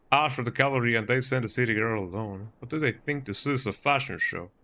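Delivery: lightly attempted Texan accent. Local scoffing at the agent sent alone, light Texan accent. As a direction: have a go at sounding Texan. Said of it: "my best Texan accent".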